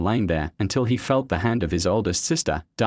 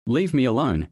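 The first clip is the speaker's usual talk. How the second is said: yelling; 4 semitones higher than usual. Acted. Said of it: "he yelled".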